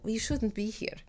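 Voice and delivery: high-pitched put-on challenge, trailing down; rival Russian actress. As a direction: imitate a snooty Russian rival, drawn out. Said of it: "one girl specifically ... tries to sabotage me".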